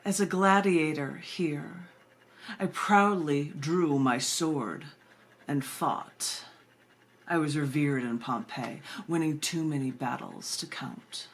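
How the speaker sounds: slow, proud gladiator's recital; a reciting poet, slow and grand with long pauses; dramatic poem recitation. Acted. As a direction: declaim each line with weighty pauses. Recites poem Ominous Day.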